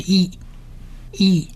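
E said as a short "ee" vowel; short E sound. Shown as a demonstration. Teacher sounding out the yod's vowel for learners, short E. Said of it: "短E的音".

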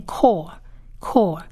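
core repeated as a separate word; pronunciation demo. Shown as a demonstration. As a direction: model "core" carefully, pausing before the repeat. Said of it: "一样是念".

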